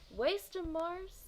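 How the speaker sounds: crowd cheer. Acted. Another kid cheers Mars, calling out high. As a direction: yell it from the curb.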